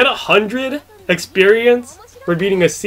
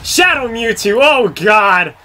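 surprised; 5 semitones higher, 3 dB louder, slower than usual. Real, not acted. Opponent revealed, dismayed.

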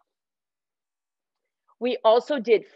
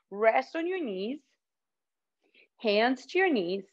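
whispering; 6 dB quieter than usual. Real, not acted. Kids yoga instruction.

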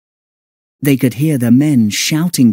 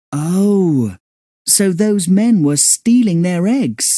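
exclaiming; 7 semitones higher than usual. Acted. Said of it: "exclaimed Sandy".

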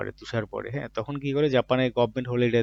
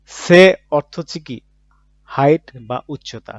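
usual speaking voice

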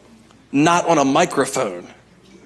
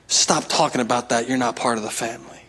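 soft shushing, much softer; hushed father; 5 semitones lower, 6 dB quieter than usual. Retold or imitated. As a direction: hush him gently like a father. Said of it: "and says, Shh".

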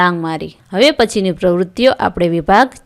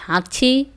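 spoken imitation of a sneeze; sneeze sound; 5 semitones higher than usual. Shown as a demonstration. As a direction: say a mild mock sneeze. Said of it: "છીંકનો અવાજ". (છીંકની હળવી નકલ)

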